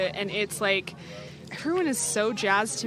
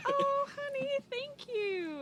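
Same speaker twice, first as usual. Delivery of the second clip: high, laughing through the words; giddy with real delight; warm mom laugh; slower than usual. Real, not acted. Overjoyed at surprise tickets.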